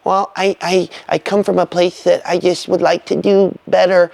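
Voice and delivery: timid, hesitant stammer; unconfident. Shown as a demonstration. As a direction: falter and hold back, unsure of yourself. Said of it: "start speaking like this".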